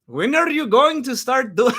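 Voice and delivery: put-on accent slipping into Middle Eastern; badly faked Middle Eastern accent; M M A guru. Streamer failing at guru impression, accent turned Middle Eastern. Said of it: "like, Middle Eastern".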